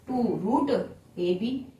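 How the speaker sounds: very slow, word by word, spelling it out for the class; slow teacher dictation. Shown as a demonstration. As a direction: dictate each word slowly so students can write. Teacher dictating slowly to students.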